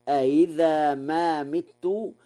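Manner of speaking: أإذا with the second hamza softened; eased second hamza. Shown as a demonstration. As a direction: glide lightly over the second hamza in أإذا. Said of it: "بتسهيل الهمزة الثانية".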